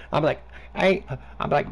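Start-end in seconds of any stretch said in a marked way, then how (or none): 0.8-1.1 light Southern drawl, playing dumb; lightly put-on Southern accent, slow; Southern yokel accent, hammed up to troll a scammer; mock Southern hick. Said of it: "I'm gonna get so Southern as fuck".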